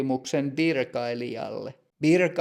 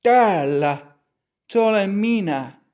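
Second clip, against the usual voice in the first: answering call; 6 semitones higher, 4 dB louder than usual. Acted. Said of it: "Matti huutaa".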